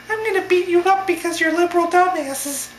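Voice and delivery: put-on babyish, very high puppet falsetto; Elmo voice. Heckler repeating his threat to protesters, babyish puppet falsetto. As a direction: squeak out a mock threat like a big baby. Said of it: "like a big baby".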